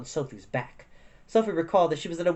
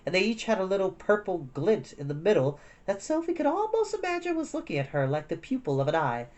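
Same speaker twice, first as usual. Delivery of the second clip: plain reading voice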